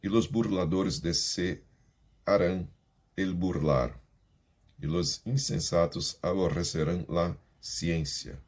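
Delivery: slow, solemn scripture reading; Bible reading. Acted. Teacher reading Proverbs aloud to students, solemn. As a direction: read it out like a sermon text.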